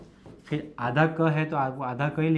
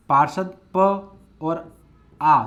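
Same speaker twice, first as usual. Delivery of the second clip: slow spelling out; 5 dB louder, much slower than usual. Shown as a demonstration. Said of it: "spelling out syllables".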